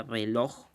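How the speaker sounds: reloj with the weight on loj; stress on final syllable. Shown as a demonstration. Teacher showing where the voice's force falls, stress on the end of reloj. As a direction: say reloj carefully, leaning on the last syllable loj. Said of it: "dónde está la mayor fuerza de voz".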